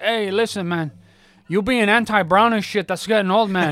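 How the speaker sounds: high, loud scolding; scolding old man. Retold or imitated. Second old man scolds the first, loud mock scolding. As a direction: tell him off, man to man. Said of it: "another old Mexican guy turns around and goes".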